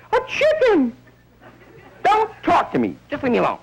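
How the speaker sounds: high falsetto wife, hurt and shrill; outraged wife. Retold or imitated. Wife catching husband with a chicken, high and outraged. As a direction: shriek it like a betrayed housewife.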